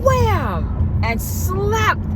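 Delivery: high, slow, drawn-out wham; slow dramatic wham; excited wham. Retold or imitated. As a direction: hit the wham hard and slow. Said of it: "acting out the slap".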